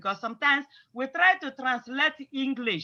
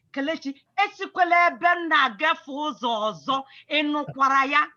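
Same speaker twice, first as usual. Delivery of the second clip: firm, weighty warning with stress on "esikwela"; serious warning; 3 semitones higher, 4 dB louder than usual. Shown as a demonstration. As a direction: warn Kelechi like you mean it, hitting "esikwela". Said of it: "give Chinemerem a serious warning".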